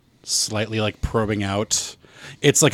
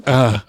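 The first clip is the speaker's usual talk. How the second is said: feeble little "uh"; short mock effort grunt, barely grabbing; weak, hapless grab noise; pathetic grab grunt; 5 dB louder than usual. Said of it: "the world's most pathetic grab".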